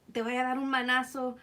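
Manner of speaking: imitating scolding mom. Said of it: "Or she'd be like".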